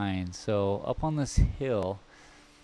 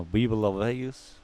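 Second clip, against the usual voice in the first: Impression of a famous singer. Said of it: "my very bad im-, Elvis impersonation".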